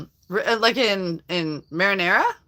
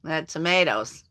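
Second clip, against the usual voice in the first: put-on Chicago accent. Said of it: "Say it like I'm from Chicago".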